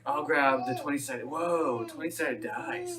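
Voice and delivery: lightly voiced laid-back hippie. Marvelling at the dice, lightly voiced hippie. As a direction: marvel slowly like a mellow hippie. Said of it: "Now he's going hippie".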